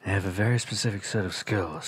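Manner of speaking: a hint of a quiet, menacing action hero; Liam Neeson. Teasing a friend as psychology's action hero, quiet menace. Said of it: "the Liam Neeson of psychology".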